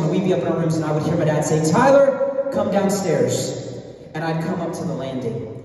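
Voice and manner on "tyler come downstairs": calling out. Retold or imitated. Dad calling son downstairs.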